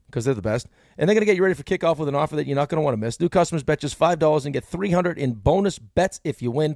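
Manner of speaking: brisk, upbeat sponsor read. Acted. Radio host to listeners, a bright ad read. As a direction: sell it like a live radio ad.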